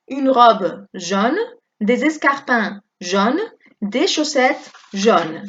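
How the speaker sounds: slow, clear teacher reading of each phrase; slow model reading. Shown as a demonstration. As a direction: read slowly for the class to repeat. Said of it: "On va prononcer tout de la même façon". (lectura lenta y clara de modelo)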